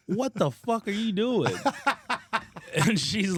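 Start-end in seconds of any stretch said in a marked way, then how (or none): 0.1-1.5 loud, slow, high mock yell; retold yell. Yelling at the naked neighbor in his driveway, mock outraged. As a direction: bellow it at her like you're fed up.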